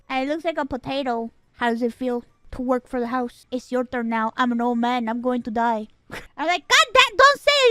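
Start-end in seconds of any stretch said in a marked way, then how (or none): 1.5-5.9 ominous dad. Retold or imitated. Dad in hoodie continues. 6.7-7.7 loud, high protest; exasperated outburst. Retold or imitated. Daughter begging dad to stop talking about dying, loud high protest. Reacting to dad's death talk.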